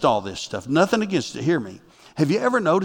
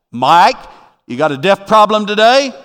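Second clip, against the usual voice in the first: higher, louder playful call; mock yell from God; 5 semitones higher, 7 dB louder than usual. God yelling at the pastor in a good way, playful shout. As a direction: call out like a teasing father. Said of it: "he yells at me".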